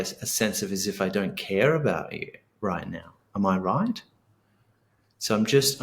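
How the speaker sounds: calm, patient validation of an angry partner; understanding tone. Shown as a demonstration. Husband calmly validating his angry partner, understanding. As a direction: meet their anger with steady kindness. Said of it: "attunement to them sounds like".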